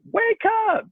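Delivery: high mock coach shout of wake up; classic coach yell. Coach mocking the classic halftime wake-up yell. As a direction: bark it like a stock coach jolting the team. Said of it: "like, the classic".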